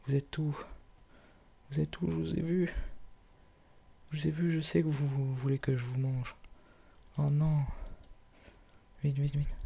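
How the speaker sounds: sing-song calling to hidden animals; playful high calling voice. Pretend.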